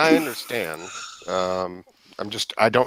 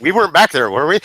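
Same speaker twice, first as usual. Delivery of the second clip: louder, mock-worried question; mock worry; 5 dB louder, much faster than usual. Player quoting a guilty first thought, mock worry. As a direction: sound playfully worried, getting louder.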